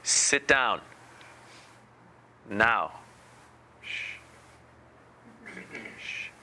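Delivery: lightly voiced toddler command, then soft shushing; a hint of a bossy two-year-old, ending in hushes; two-year-old impersonation. Shown as a demonstration. Teacher imitates child calling him to meditate, light toddler command. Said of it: "my best two-year-old impersonation right now".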